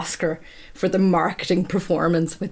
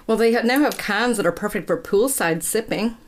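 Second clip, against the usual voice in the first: mock American accent; 2 semitones higher than usual. Teasing co-host by reading the ad in an American accent. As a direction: sell poolside cans in a hammed-up American accent. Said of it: "Are you gonna do this whole episode in an American accent?".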